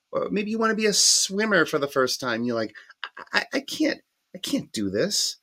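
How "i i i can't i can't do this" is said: sudden high squeak of mock panic; a hammed-up panicked stammer. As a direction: play the scared beginner, voice cracking up high. Panicked first-time swimmer quote.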